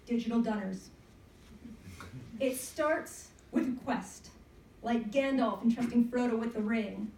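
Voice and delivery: measured spoken-word poem with pauses; poem recitation. Acted. Poet reading to an audience on National Poetry Day, performed recitation. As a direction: read it out as a narrative poem. Reads their own narrative poem.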